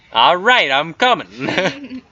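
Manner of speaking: high, drawn-out weasel grumble; weaselly voice. Acted. Weasel answering when called over, weaselly voice. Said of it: "It's a weaselly voice".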